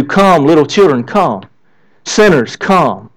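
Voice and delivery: low, softening call to come; gentle invitation. Retold or imitated. Jesus invites children and sinners to come, gently inviting. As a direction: lightly voice a tender welcome, dropping on each last word.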